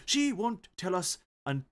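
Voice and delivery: put-on slow, slipping Indian accent; accent drifting toward Indian. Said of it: "I just went to a bit of Indian".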